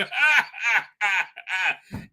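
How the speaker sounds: hammed-up villain laugh; mock devilish laugh. Imagines himself as devil with flames.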